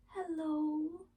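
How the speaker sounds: drowsy, just-woken voice; sleepy. Acted. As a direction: say it half asleep. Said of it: "said little hedgehog sleepily".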